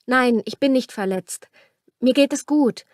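Liliana, husky voice. A narrator's reading. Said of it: "sagte sie leise und ihre Stimme klang belegt".

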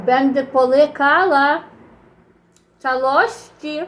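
toothless, swallowing whole; gumming the words without teeth; missing front teeth. Real, not acted. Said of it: "nie mam zębów".

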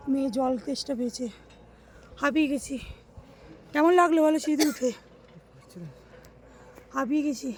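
panting after climbing stairs; breathless from the stairs; out of breath. Real, not acted.

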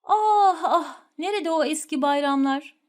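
wistful sigh with a laugh; mock nostalgic sigh. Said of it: "özlem cümleleridir". (abartılı özlem)

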